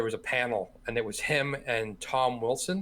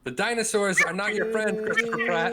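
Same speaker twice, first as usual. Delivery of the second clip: high and loud trailer announcer; dramatic movie-trailer voice; 9 semitones higher, 6 dB louder than usual. Pretend. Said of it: "That's even better".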